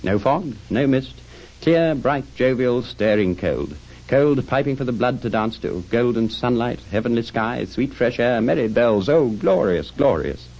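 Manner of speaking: high, exulting exclamations; rapturous delight. Acted. Scrooge at the open window, rapturous delight. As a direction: relish each thing, settling on the last word.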